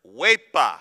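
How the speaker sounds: huepa called out loud with a falling finish; Puerto Rican huepa. Shown as a demonstration. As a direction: shout huepa like a celebration cheer. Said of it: "it is the word".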